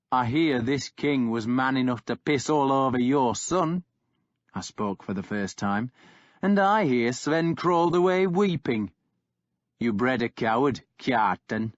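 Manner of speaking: Uhtred mocking the warlord; taunting. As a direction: needle him about his son. Narrator Uhtred taunts Kjartan.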